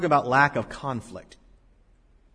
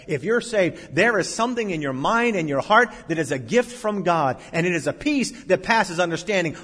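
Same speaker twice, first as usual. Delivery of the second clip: pulpit delivery building higher and louder; emphatic preaching; 7 semitones higher, 8 dB louder than usual. Acted. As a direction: build it up for the congregation. Preaches at full force.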